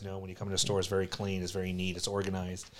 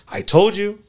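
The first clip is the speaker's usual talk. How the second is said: much higher and louder, a triumphant father; I-told-you-so dad; 11 semitones higher, 12 dB louder, slower than usual. Retold or imitated. Father reminding his son he warned him, loud and smug. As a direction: crow it like a dad proven right.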